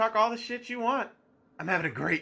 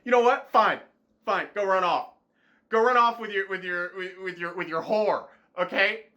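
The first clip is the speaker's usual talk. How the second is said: angry dismissal. Acted. Twitch telling Shroud to run off, angry hurt dismissal. Jilted platform sends streamer off.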